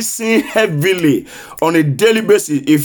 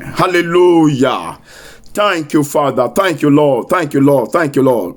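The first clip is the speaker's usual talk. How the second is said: low murmured thanks; 5 semitones lower than usual. Acted. Quiet thanksgiving after prayer.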